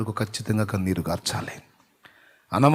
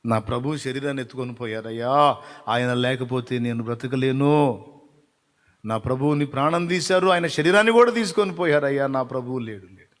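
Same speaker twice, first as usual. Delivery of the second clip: acted lament. Preacher as Mary who lost her Lord, mournful lament. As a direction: plead in dramatised grief, sinking away at the end.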